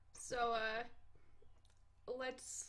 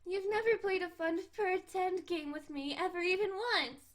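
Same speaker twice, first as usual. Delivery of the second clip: high, pouty complaint; whiny cat girl; 5 semitones higher than usual. Acted. Cat girl complaining he never plays pretend, pouty. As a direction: whine it like a bored kitten. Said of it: "I was doing so good".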